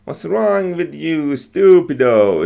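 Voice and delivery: put-on a light Italian accent on What's wrong with you, stupido. Teacher imitates the Italian movie character's accent. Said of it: "an Italian accent, I guess".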